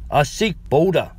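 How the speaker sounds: put-on broken English in a heavy Eastern European accent; an old Romanian woman asking for a builder; thick foreign accent. Old Romanian woman asks the clerk for help, in a thick accent. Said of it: "her very thick accent".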